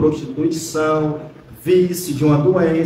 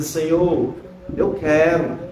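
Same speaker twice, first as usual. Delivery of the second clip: understated, lowered humble plea; 2 semitones lower, slower than usual. Acted. Leper humbly addressing the Lord, understated plea. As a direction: plead humbly, without force. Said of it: "Com humilhação, com humildade, dizer".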